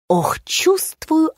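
slow breathy whisper to herself; whispered aside. A narrator's reading. Narrator whispers her doubt to the listener. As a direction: whisper the sigh like a private thought.

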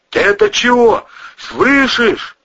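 high, loud panicked urging. Acted. Cousin trying to wake the woman, high panicked urging. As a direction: shake her awake, frantic.

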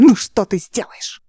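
slow, menacing question. Acted. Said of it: "Тон Нейба стал угрожающим".

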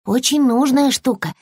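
high squirrel voice, lecturing; a small squirrel defending his tail; little squirrel, a bit cross. Acted. Squirrel figure held voice.

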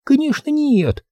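put-on high, slow indignant girl; outraged, sarcastic retort. A narrator's reading. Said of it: "возмущённо откликнулась девочка".

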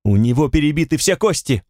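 a woman shouts at her friend not to move him; shouting. Acted. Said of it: "Она прокричала".

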